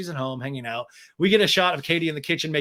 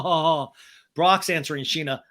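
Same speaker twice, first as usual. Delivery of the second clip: ordinary delivery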